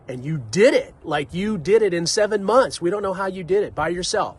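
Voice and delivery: mock disbelief, voice lifted; amazed neighbors. Neighbors amazed at his build.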